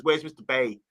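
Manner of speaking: light Brummie imitation; a hint of Birmingham on "Bay"; Birmingham accent. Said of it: "He's in the Birmingham Brunning accent".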